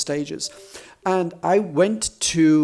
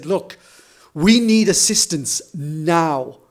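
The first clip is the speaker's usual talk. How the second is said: mock, stagey, booming Shakespearean voice, slowed and stretched; 3 dB louder than usual. Retelling standing up in a busy airport to address the staff, loud booming Shakespearean voice. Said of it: "in this loud, booming Shakespearean voice".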